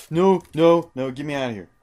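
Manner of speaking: high, loud panicked cries; panicked yell. Real, not acted. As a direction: shout in real panic to get out. Trapped in lava, panicking.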